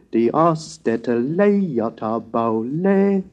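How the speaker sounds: slow, metrical chant in ancient Greek; stately pitch-accented verse, drawn out; somber Greek recitation. Shown as a demonstration. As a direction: intone the epic line with long vowels and swooping pitch accents. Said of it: "Now here are the passages. First, the Iliad".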